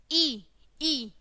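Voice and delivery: "ई" said short and quick; short vowel. Shown as a demonstration. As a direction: keep each "ई" small and brief. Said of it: "जल्दी से बोलेंगे". ("ई" को छोटा, जल्दी से बोलना)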